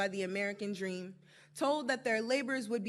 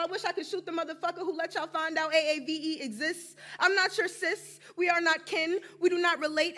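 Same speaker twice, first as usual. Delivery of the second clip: angry; 5 semitones higher, 7 dB louder than usual. Acted. Angry poem climax.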